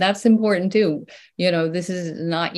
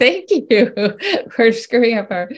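sarcastic thanks; 6 semitones higher, 5 dB louder, much slower than usual. Pretend.

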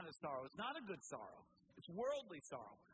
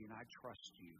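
softer, hushed words of trust; soft trusting prayer; 8 semitones lower, 7 dB quieter than usual. Pretend. Pastor voicing a believer's prayer to God, hushed and trusting. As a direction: let it sink down to a hush.

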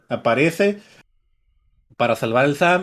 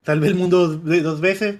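Sam's indignant boast; 4 semitones higher, 4 dB louder than usual. Retold or imitated. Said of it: "pues, dice".

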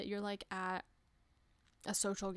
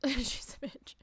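hushed, conspiratorial whisper; a teasing whispered jab at the cat; whispered aside; 4 semitones higher than usual. Real, not acted. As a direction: drop to a whisper like sharing a secret. Whispered aside about her cat.

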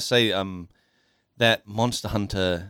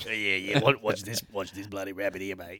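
Aussie farmer voice. Acted. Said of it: "the fucking farmer voice".

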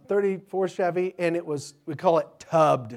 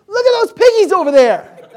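put-on very high, loud squeal of childish excitement; excited little boy; 15 dB louder than usual. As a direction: imitate a thrilled kid shouting about a discovery. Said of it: "he's all excited".

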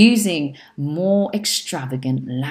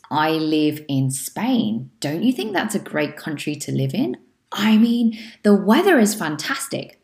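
sample answer. Shown as a demonstration. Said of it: "if you say it in the right tone".

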